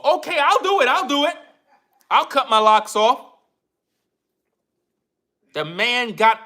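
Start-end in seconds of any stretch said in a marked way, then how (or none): 0.0-3.2 eager laughing agreement. Acted. Imagined eager reply, laughing.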